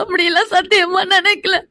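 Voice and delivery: tearful denial; weepy, pleading protest; crying. Acted. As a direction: swear it through tears. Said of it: "இப்ப நீ எதுக்குடி அழுதுட்டு இருக்க".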